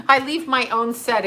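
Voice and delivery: amused at herself, laugh breaking out; cracking up. Real, not acted. Streamer admits leaving her own set, cracking up. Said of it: "which just cracks me the hell up".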